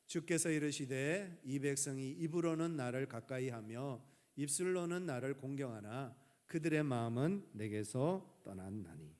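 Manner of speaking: slow, measured verse reading, dropping at the end; lightly formal, slow Bible reading; scripture reading. Acted. Reads a Bible verse aloud. (성경 구절을 천천히 낭독하듯)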